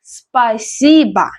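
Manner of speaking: slow Хорошо rising, pause, спасибо falling; pronunciation demo. Shown as a demonstration. Teacher repeats Хорошо, спасибо for learners, slowly. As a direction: stretch Хорошо and спасибо, stressing о and и. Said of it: "the stress is on E".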